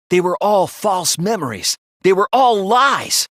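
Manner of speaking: ringing final verdict; forceful declaration. Acted. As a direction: hammer the accusation home. Accusing climax in class trial.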